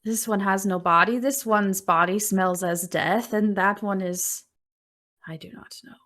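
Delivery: loud crone sniffing the strangers, trailing off; suspicious old witch. Acted. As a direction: inspect each stranger like a hungry witch. GM voices Baba Yaga.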